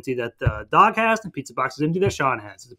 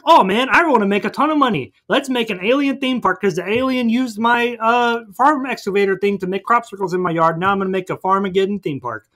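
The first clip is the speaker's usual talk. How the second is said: greedy farmer; 5 semitones higher than usual. Retold or imitated. Farmer voiced in retold movie.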